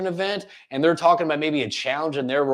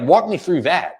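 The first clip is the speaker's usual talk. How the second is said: puzzled request to explain; mildly baffled, inviting an explanation; confused tone; 2 semitones higher, 5 dB louder than usual. Shown as a demonstration. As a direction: ask as if you're lost. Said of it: "So again, the confused tone".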